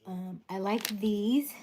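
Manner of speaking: slow breathy whisper. Real, not acted. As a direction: whisper it like a secret. Whispered product aside.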